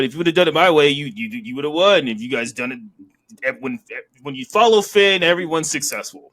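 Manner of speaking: mock wrestler's promo without the accent; Finn. Host retelling Finn's backstage promo, lightly imitated. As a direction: lightly imitate a self-assured leader. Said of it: "I can't do an Irish accent".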